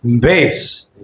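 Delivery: low chest-voice bass. Shown as a demonstration. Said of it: "You hear my chest, chest voice".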